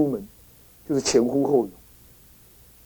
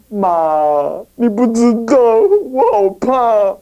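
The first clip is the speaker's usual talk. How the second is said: a slow, put-on tearful plea with a catch of crying; whimpering son; 2 semitones higher, slower than usual. Scheming son fakes tears to his mother, slow whimpering plea. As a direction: whine to mother as if frightened. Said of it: "他去他妈妈那里哭".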